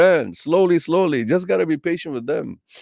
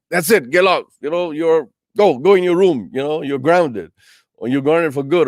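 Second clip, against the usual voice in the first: raised, sharp parental telling-off; exasperated parent barking orders; scolding parent; 2 semitones higher, 4 dB louder than usual. Retold or imitated. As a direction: snap at nagging kids as a fed-up parent. Impatient parent scolding nagging children.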